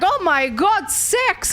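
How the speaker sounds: high, mock-shocked gasp of outrage; mock shocked YouTuber. YouTuber reacting to a sex scene, mock shock. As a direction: ham up a YouTuber's fake shock. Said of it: "that scene with their shocked faces".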